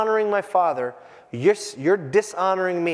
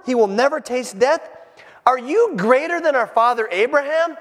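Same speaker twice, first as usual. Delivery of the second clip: accusing crowd, louder and higher; exclaimed; 7 semitones higher, 4 dB louder than usual. Acted. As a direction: shout it as an outraged crowd. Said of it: "the Jews exclaimed".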